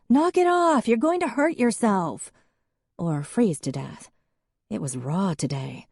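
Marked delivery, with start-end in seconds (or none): 0.1-2.3 high, louder warning shout; shouting after her. A narrator's reading. Em shouting at Hadley to stop, high and loud. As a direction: shout a warning across the yard.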